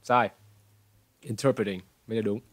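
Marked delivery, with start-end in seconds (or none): 1.2-1.8 Interpreting with stress on the second syllable, "TER". Shown as a demonstration. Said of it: "Nhấn vào cái turn này". (Interpreting, nhấn vào âm "ter")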